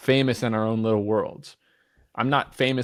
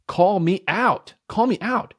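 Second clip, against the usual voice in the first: rising, louder and slow; urging the team to speak up, louder and higher; insistent call; 8 semitones higher, 4 dB louder, slower than usual. Retold or imitated. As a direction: push the words up and out. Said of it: "I talk louder".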